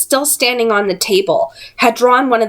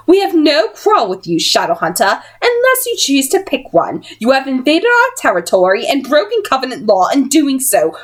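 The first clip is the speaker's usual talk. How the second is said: cold warning; 7 semitones higher than usual. Acted. Missus Dark warning Will.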